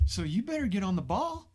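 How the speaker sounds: laughing through the words. Real, not acted. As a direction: laugh as you say it. Joking about short lifespans.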